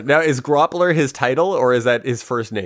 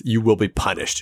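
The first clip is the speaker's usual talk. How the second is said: upset threat; 2 semitones lower than usual. Retold or imitated. Groppler warns the room he's upset with, understated threat. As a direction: quote the threat with restraint. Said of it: "he's upset that these apples".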